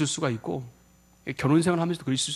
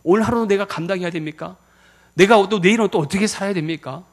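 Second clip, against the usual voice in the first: lament prayer; 2 semitones higher than usual. Acted. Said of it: "내가 슬피 울고".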